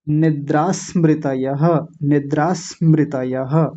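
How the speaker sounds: slow निद्रा स्मृतयः with no break inside; joined without stopping. Shown as a demonstration. Teacher saying don't pause midway, slow continuous निद्रा स्मृतयः. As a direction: glide through निद्रा स्मृतयः to a final ha. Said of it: "अब रुकना नहीं है बीच में".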